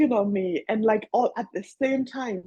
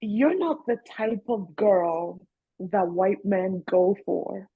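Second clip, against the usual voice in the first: imitating condescending woman; slower than usual. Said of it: "she was like".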